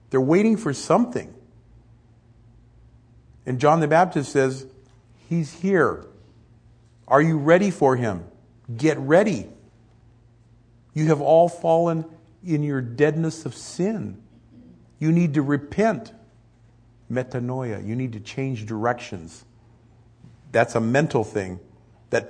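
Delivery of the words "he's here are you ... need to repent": loud, urgent call to repent; fiery prophet call. Acted. Preacher as John the Baptist calling crowds to repent, loud and urgent. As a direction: call the crowd to get ready.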